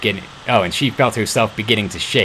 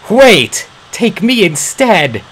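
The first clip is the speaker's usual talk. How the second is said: high loud plea; desperate shout; 9 semitones higher, 6 dB louder, much slower than usual. Acted. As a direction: cut in to save him. Interrupting to save father.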